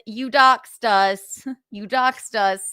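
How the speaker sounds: slow, loud accusation; accusing. Real, not acted. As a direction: lay the blame on each word.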